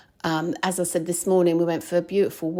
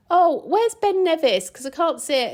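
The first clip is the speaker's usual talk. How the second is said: puzzled question; 10 semitones higher, 4 dB louder than usual. Retold or imitated. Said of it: "I even asked the petrol lady".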